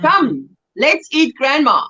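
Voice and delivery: said in one breath, no pause after come; one smooth unbroken line; fast plain reading. Shown as a demonstration. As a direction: run it together without a comma pause. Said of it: "punctuation's everything".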